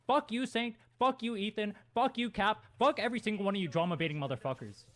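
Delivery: ordinary talk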